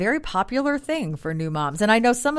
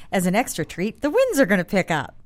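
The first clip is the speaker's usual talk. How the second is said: sarcastic. Real, not acted. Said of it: "I'm being sarcastic".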